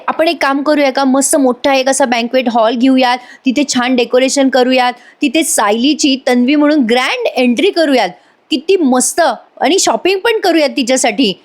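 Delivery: high, eager planning voice; acted excitement. Asmita proposing a grand party to family, high excited voice. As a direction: pitch each idea with lifted enthusiasm.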